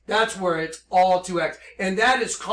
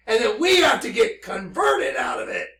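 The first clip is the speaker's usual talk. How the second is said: crying out; 4 dB louder than usual. Real, not acted. Overcome, crying out revelation.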